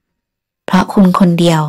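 a touch of peevish scolding; mild snapping. Acted. Woman snaps at the man who made her late, mildly. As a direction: blame him, sharply but lightly. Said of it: "ตวาดแวดแวดขึ้นมาอีก".

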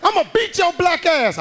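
high, loud threatening mom; angry mother. Retold or imitated.

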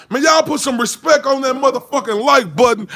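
a light rapper mogul impression; rap mogul voice. Vlogger asking viewers to hit like, in a light rap mogul voice. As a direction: drop into a hint of a swaggering rap mogul. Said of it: "in my Birdman voice".

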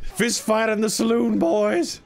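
high, drawn-out playful holler; rallying call. Pretend. Cowboy calling the boys to a saloon fight, rallying call. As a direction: call the gang into a brawl.

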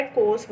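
कोर्स said with no p sound; silent p. Shown as a demonstration. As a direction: say कोर्स for corps, leaving the p silent. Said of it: "यहाँ पे पी silent है".

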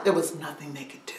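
awed hushed telling; whisper. A narrator's reading. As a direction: let it fall to a whisper. Hushed aftermath of escape.

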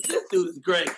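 normal talking voice

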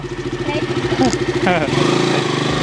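voiceless little chuckle; short laugh. Real, not acted. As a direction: let out a brief laugh. Laughing during the bike ride.

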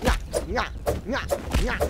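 singsong nyah-nyah taunt; sing-song taunting. Acted. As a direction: tease it like a playground bully. Taunting the creature while stabbing.

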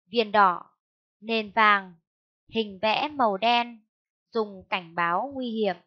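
careful phrase-by-phrase reading, pauses between phrases; model read-aloud. Shown as a demonstration. Teacher models the reading passage for pupils, careful read-aloud. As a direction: read it out in short, separate phrases for pupils to follow.

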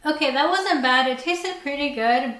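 talking while chewing; biting into pizza slice; mouth full of pizza. Real, not acted. Seen 2: Slice at lips 0.1-1.0, then closed-mouth chewing through 2.2.

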